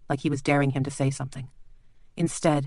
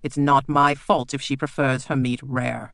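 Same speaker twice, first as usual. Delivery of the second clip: affronted; 3 dB louder, slower than usual. Acted. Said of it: "sounding affronted".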